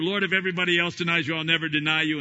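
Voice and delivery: loud, fast, lightly voiced bold vow; Peter's boast. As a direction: swear loyalty with bravado. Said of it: "the claim of Peter".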